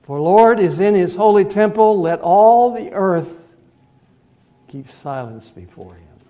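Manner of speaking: loud, slow, proclaimed verse; fervent scripture. Acted. Preacher proclaiming Habakkuk to the congregation, loud. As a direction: thunder the verse, then drop to a hush.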